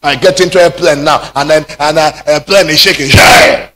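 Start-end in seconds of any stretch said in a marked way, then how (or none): 3.1-3.7 panicked prayer. Retold or imitated. Panic prayer on shaking plane.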